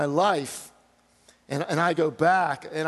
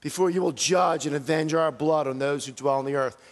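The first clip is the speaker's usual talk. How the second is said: martyrs' cry. Acted. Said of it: "This is the cry of the martyrs".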